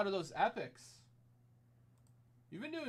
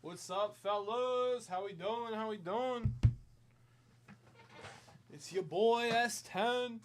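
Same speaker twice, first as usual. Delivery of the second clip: raspy smoker's voice; rough, gravelly smoker rasp; 3 semitones higher, slower than usual. Acted. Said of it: "like, a smoker's rasp".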